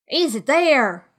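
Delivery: high, slow demanding question; a contained roar, drawn out; mild roar. A narrator's reading. Blind beggar to man at the window, mildly roared. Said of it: "roared Pew".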